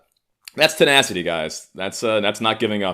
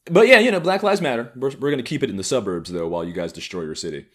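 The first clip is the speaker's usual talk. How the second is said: mock white liberal; 4 semitones higher, 4 dB louder than usual.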